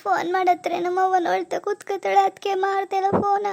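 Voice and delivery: homesick, tearful plaint. Acted. New bride tells husband she misses her mother, tearfully. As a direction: say it as if holding back tears. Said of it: "ಅದ್ಕೆ ಹಿಂಗ್ ಅಳ್ತೇನೆ ಕೂತ್ಕೋತೀರಾ?".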